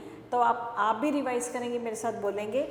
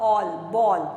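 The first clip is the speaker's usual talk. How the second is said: ball said louder, all ending punched; loud ending stress; 4 semitones lower, 8 dB louder than usual. Shown as a demonstration. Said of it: "उसके आगे आएगा all". (ball में all पर ज़ोर, ज़ोर से)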